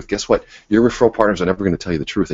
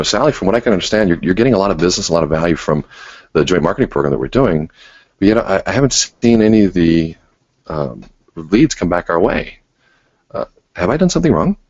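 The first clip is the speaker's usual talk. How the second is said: gentle inquiring tone. Shown as a demonstration. Coach demonstrating how to ask a referral partner, gently curious. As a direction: ask kindly, really wanting to know. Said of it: "we go through and we say".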